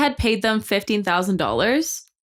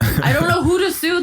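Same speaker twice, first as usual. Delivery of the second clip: laughing; 8 semitones higher, 3 dB louder than usual. Real, not acted. Laughs at idea of suing.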